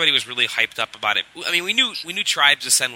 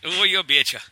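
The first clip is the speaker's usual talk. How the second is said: put-on Dakota accent; 4 semitones higher than usual. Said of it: "such a sweet Swedish, uh, or Norwegian accent".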